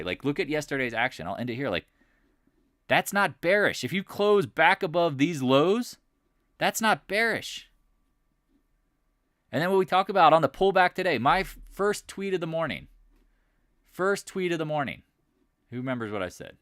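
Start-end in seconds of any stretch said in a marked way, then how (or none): 2.9-7.7 high-pitched, loud, drawn-out protest; emphatic insistence. Real, not acted. Trader telling viewers the close isn't bearish, emphatic. 9.5-15.0 excited boasting. Real, not acted. Boasting of an earlier call.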